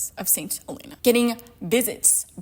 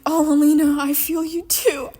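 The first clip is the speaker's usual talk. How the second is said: mocking Mal; 4 semitones higher, 6 dB louder than usual. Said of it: "Mal is like".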